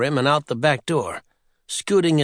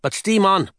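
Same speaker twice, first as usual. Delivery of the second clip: higher cheering sailor voice; old sailor voice; 6 semitones higher, 3 dB louder than usual. Acted. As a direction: cheer him on like a seaman. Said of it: "said the sailor".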